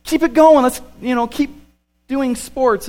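high, loud protest; a kid begging the games to keep going. Retold or imitated. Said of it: "I'm like".

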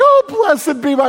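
a mother swooning over her son, hammed-up; mock rapturous mom, pitched high; gushing mother. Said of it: "And then she's like".

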